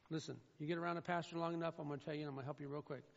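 quick hushed aside; rapid aside. Real, not acted.

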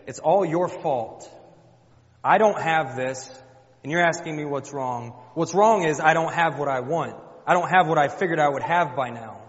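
loud, hammered-out accusation; blaming outburst. Acted. Childless wife blaming her husband, loud and bitter. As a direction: let the grievance burst out at full volume. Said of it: "We say".

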